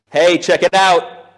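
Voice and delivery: slow, gloating taunt; smug taunt. Pretend. Pastor imagining gloating at Pilate, slow smug taunt. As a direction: rub it in to the haters. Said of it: "I know who I'd go visit".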